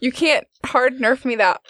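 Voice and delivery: high-pitched, indignant outcry; real protest. Real, not acted. Player protests ruling against their roll.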